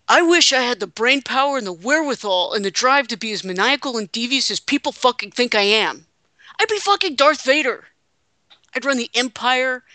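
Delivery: mock Triple H boasting about being devious, only a touch off the speaker's own voice; Hunter impression. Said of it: "in my horrible Hunter impersonation".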